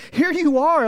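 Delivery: loud, high cry of welcome; ecstatic yell. Acted. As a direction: exclaim it with overjoyed force. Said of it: "he yells his name".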